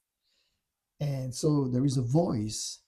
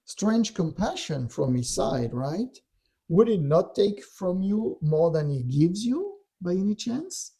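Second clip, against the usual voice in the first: mock-incredulous questions with rising ends; taunting; 4 semitones higher than usual. Dark voice needling Yeshua about his fast, taunting. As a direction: needle him with leading questions, imitating a tempter. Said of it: "Wow, he is taunting him".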